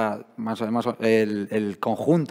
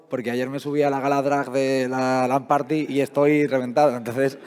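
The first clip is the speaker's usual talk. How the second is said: hoarse, worn-out voice; talking on a voice that's nearly gone; voice giving out. Real, not acted. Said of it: "no tengo voz".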